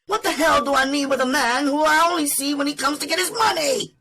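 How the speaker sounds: high-pitched, fast-talking woman fed up and daring him; spitting defiance. Acted. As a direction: spit it out in a furious high rush. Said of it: "when she spat out her invitation".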